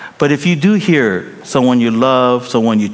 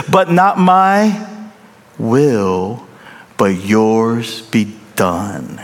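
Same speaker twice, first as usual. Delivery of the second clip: surrender; 3 semitones lower, much slower than usual. Acted. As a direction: let go and yield slowly. Jesus yielding to the Father.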